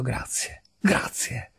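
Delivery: hushed, whispered thanks; overcome gratitude. A narrator's reading. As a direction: let the voice drop away to a whisper. Overcome with relief, thanking his friend.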